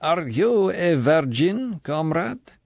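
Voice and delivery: slow, high, confiding whisper-like tone; girlish conspiracy. A narrator's reading. Colonel asking intimate question, girlish conspiracy. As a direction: lean in like a gossiping schoolgirl. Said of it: "girlish conspiracy in the next question".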